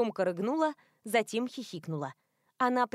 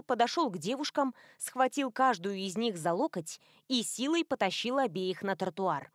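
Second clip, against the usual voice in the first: ordinary delivery, nothing marked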